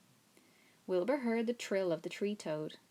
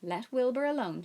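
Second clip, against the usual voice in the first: louder, higher sharp rebuke; 4 semitones higher, 6 dB louder than usual. A narrator's reading. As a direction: tell the lamb off sharply. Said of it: "she spoke sharply to the lamb".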